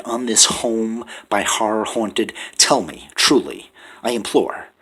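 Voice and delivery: rising anguished outcry; frantic pleading. Acted. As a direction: build a desperate frenzy at the bird.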